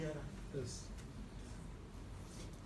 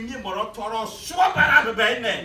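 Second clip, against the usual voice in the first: loud, slow shouted line; 5 semitones higher, 9 dB louder than usual. Real, not acted. Speaker shouting slowly to the rally crowd. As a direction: draw it out and shout it.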